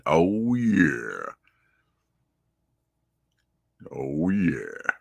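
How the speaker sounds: a hint of a deep-voiced soul singer. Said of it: "You sound like a soul singer".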